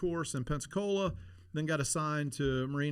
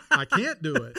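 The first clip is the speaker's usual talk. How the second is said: higher and louder, laughing; deflated with a laugh; laughing deflation; 6 semitones higher, 7 dB louder than usual. Retold or imitated. Telling the host how his plans flipped, laughing it off.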